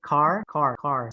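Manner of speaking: "car" repeated with a clear American R; pronounced R. Shown as a demonstration. Teacher drilling the R for a student, clear R on "car". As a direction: sound the final R in each "car". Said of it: "Say the R".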